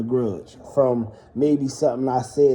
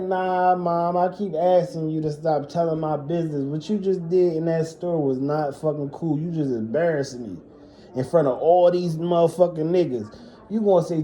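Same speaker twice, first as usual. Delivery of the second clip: mild mock hollering; 2 semitones higher than usual. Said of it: "cussing her the fuck out and hollering at her".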